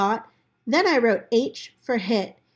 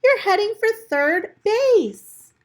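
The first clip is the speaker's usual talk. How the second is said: yell; 12 semitones higher, 6 dB louder than usual. Acted. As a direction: call across the field to stop him. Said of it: "And Tom yelled".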